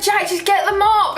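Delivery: high, laughing request; laughing plea. Retold or imitated. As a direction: beg him through laughter. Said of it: "And I was like".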